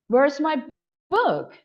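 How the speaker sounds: BOOK set apart after a pause, high then falling; pause, then hit the noun BOOK with a high fall; stress on BOOK. Shown as a demonstration. English teacher showing staircase intonation, noun BOOK stressed. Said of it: "they are categorized as noun".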